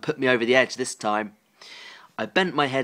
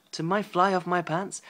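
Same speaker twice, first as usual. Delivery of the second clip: incredulous reread; 4 semitones higher, 4 dB quieter than usual. Real, not acted.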